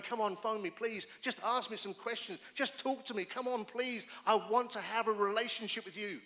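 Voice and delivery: lightly voiced God begging for a call; God pleading on the phone. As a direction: gently beg them to call. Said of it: "he's sitting at the end of the phone going".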